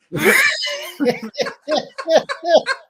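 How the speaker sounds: high, loud shrieking laugh; real laughter, nearly in tears; howling laughter. Real, not acted. Storyteller howling with laughter at the punchline. Teller cracks up at own story.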